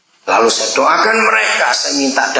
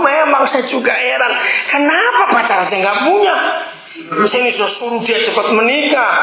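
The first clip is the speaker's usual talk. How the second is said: amused mother; 12 semitones higher than usual. Retold or imitated. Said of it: "Ibunya tertawa".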